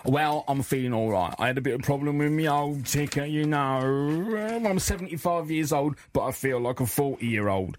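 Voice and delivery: light aging-rocker voice; lightly voiced aging rocker; rock-star impression. Host plays a famous rock singer as a studio guest, lightly voiced. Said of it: the host invites the knighted rock star to come in.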